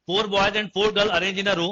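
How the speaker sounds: slow, evenly spaced words; slow dictation. Shown as a demonstration. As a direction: read the full question out for copying. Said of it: "reads whole question for writing".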